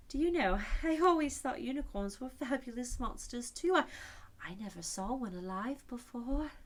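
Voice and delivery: put-on a curious little girl; Alice's voice. A narrator's reading. Alice telling the unicorn her wonder, lightly girlish.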